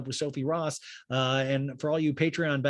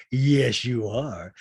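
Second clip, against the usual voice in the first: Rinna imitation; 3 semitones lower, 6 dB louder, much slower than usual. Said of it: "And Rinna goes".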